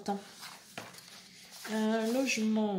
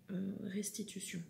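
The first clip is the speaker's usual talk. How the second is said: whisper; 10 dB quieter than usual. Real, not acted. Muttered aside while sorting.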